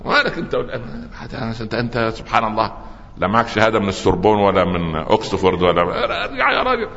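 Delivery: mock the shabby man, sneering him away; contemptuous. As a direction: dismiss him with open contempt. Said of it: "فنظروا كده باحتقار".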